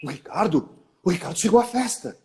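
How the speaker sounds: stammering the name, then rushing on; faltering start, quick finish; 1 repeated hesitant delivery. Shown as a demonstration. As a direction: trip over the name, then hurry. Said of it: "se eu falar assim".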